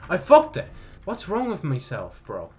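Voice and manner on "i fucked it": building dismay. Real, not acted. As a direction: repeat it, rising each time into a yelp. Realises mistake, repeats it louder.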